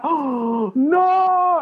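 high, cracking cry of dismay; a hammed-up howl of horror; mock anguished oh no. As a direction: wail it like your heart just broke. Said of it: "I was like".

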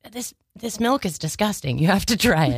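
mock Baltimore accent. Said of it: "It's kind of like".

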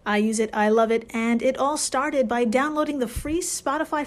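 upbeat sponsor read. Acted. Host reading a sponsor spot, upbeat ad read. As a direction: pitch the app with enthusiasm.

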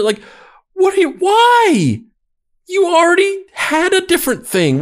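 mock-tragic monologue; overacted indignant rant; dramatic reading. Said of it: "And scene. And that was a dramatic reading".

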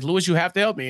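ordinary talk

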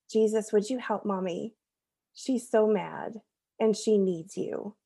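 put-on slow, soft, simple child's prayer; lightly voiced little boy praying; quoting child's prayer. Mom quoting her son praying for her, slow and soft.

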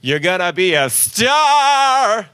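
high and slow, stagey delivery; dramatic actor voice. Pretend. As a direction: declaim it like a theater kid. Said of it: "See, that's good".

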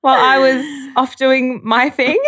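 high-pitched mock-nosy question; coy, high-pitched prompt to a friend; playful teasing. Real, not acted. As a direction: tease her in a high, playful voice.

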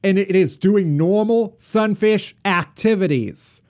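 put-on mid-century radio announcer with a Boston accent; formal Kennedy-style Boston read. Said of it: "It's my Kennedy accent".

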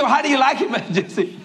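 lightly voiced hopeful hostess; hostess asking. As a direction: ask sweetly, waiting for praise. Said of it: "She said".

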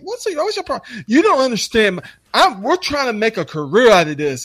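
high, whiny protest; hammed-up pleading outrage; mock indignation. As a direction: imitate an upset young co-worker. Acts out young guys' upset protest.

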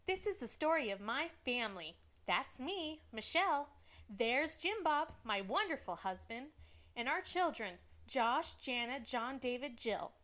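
a hint of Michelle's sweet mom voice; imitating Michelle. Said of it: "Did I sound like her?".

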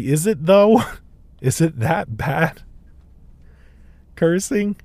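high, questioning mock disbelief; sceptical challenge. Retelling his pushback to old church people, sceptical. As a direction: pitch it up, laughing doubt.

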